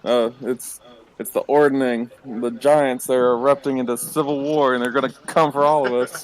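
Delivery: put-on slurred, drunken ranting; drunk slurring. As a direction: talk like a tavern drunk. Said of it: "like a crazy drunk person".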